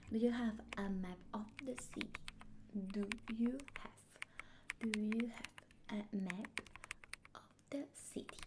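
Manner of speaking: teacher chunks "Do you have a map of the city?"; model phrase. Shown as a demonstration. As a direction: drill the phrase piece by piece. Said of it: "Cómo lo dirías".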